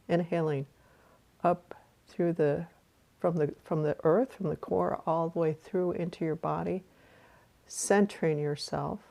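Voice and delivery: calm meditation guide with long pauses; guided meditation. Real, not acted. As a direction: guide listeners through a breath, unhurried.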